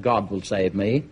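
low, unhurried assurance; calm certainty. Acted. Believer calmly refuses the rowing boat.

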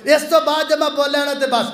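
high, quick pleading; urgent promise. Acted. Moses begs his teacher for one last chance, urgent high voice. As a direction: rush out a solemn promise.

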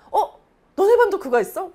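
high, loud surprised question; surprised kid. Retold or imitated. Twin asking his brother about the same class, surprised and loud. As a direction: ask it amazed, like a child. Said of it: "말하면서 둘이 막 얘기를".

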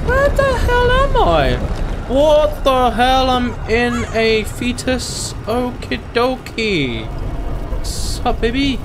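put-on high, slow, loud baby voice. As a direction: talk like a dazed newborn. Voicing a fetus in slow high voice.

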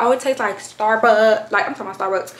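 talking around a drink in the mouth; mouth full. Real, not acted. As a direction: speak with liquid in your mouth. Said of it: "That's why I'm talking like that".

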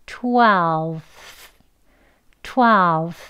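twelve with the lips rounded and the teeth just showing; careful twelve. Shown as a demonstration. Teacher modelling twelve for Korean learners, carefully. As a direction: sound out twelve slowly for the class. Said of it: "그러면".

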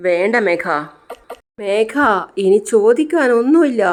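a wife breaking down, lightly voiced; husband betrayed, wife refuses, half-crying. A narrator's reading. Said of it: "എന്ന് പറഞ്ഞ് ജാനകി കരയാണ്".

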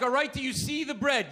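talking down like a control tower to a plane; condescending tone. Retold or imitated. Husband quizzing his wife about the bread, condescending. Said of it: "really condescending tone in your voice".

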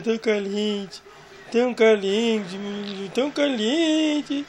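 slow, drawn-out cooing. Real, not acted. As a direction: stretch it out like cooing to a pet. Cooing over warm dog.

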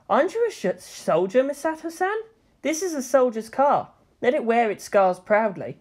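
put-on earnest teen reassuring; lightly voiced earnest boy; Shinji. A narrator's reading.

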